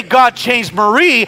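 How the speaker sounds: slow, pleading prayer naming Marie; mild mock prayer; wrong prayer. Shown as a demonstration. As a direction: pray slowly for someone else to change. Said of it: "I can't pray".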